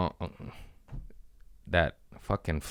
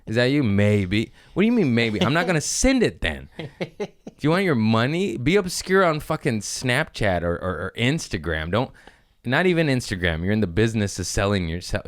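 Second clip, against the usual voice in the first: retold roast; 4 semitones higher than usual. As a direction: lay into him, half joking, pitched up. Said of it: "I was like".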